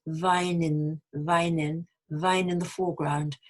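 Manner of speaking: "vine in" linked as "vi-nin"; joined-up "vine in", no gap; liaison. Shown as a demonstration. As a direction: carry the n of "vine" into "in". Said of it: "we make a liaison between the n".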